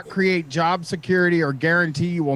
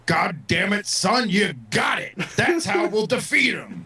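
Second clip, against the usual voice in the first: cigar-chomping boss; 3 semitones higher than usual. Retold or imitated. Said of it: "chomps on a cigar and he's like".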